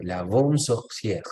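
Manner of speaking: La bonne sorcière read out slowly, word by word; slow model reading. Shown as a demonstration. Teacher reading the title slowly to her students. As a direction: spell it out slowly for the class. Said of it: "Qué creen ustedes que quiere decir".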